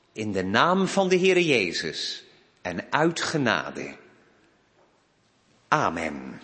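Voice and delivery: measured prayer with deliberate pauses; congregational prayer. Real, not acted. Minister praying for congregation and church, solemn prayer. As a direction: pray aloud for the church, phrase by phrase.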